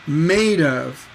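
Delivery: MADE held long, OF falling away unstressed; slow "Made", weak trailing "of"; stress on MADE. Shown as a demonstration. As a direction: lean on "Made" and let "of" drop. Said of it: "the stress is on made".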